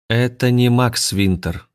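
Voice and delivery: a hint of a flat, lifeless alien voice, slow. Possessed Anastasia announces to the crowd, lifeless voice. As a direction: speak as if something else uses her mouth. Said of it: "равнодушным безжизненным голосом".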